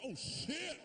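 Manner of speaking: high, voiced-over dismay; high mock dismay at himself; dismayed oh shit. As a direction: squeak it out, caught off guard. Reaction to finishing too fast.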